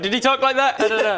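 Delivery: a guard squinting in doubt. Retold or imitated. GM voices guard wondering about the disguise. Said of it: "he's like".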